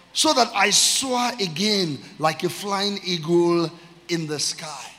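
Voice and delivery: slow, stretched, ringing reading; psalm declamation. Real, not acted. Preacher reading intentional praise psalm to church, slow fervent declamation. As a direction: proclaim it as heartfelt praise to God.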